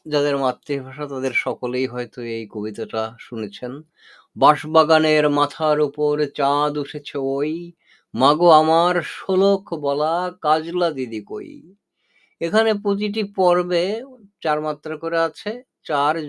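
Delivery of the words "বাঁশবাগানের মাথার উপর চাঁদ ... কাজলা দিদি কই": poem recitation. Shown as a demonstration. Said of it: "এবার শেষ পর্যন্ত দেওয়া যাক".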